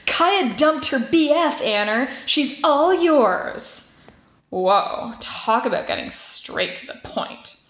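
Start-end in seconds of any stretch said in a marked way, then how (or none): 0.1-3.9 slow loud drawn-out taunt; all-caps announcement. Retold or imitated. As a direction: announce it loudly and slowly, teasing. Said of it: "typed in all caps".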